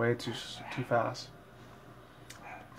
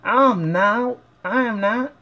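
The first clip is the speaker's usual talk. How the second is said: much higher, louder insistent denial; Applejack protesting; 9 semitones higher, 4 dB louder, slower than usual. Acted. Fan voicing Applejack denying to Rarity, high and insistent. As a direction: insist in a high cartoon pony voice.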